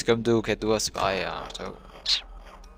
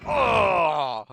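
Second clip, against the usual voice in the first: cri de pirate; 7 semitones higher, 3 dB louder than usual. Pretend. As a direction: hurle comme un pirate à l'abordage. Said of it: "Ou de pirate". (cri de pirate)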